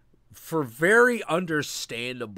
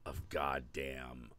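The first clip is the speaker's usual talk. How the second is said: whispering; 8 semitones lower, 12 dB quieter than usual. Real, not acted. Awed aside to himself.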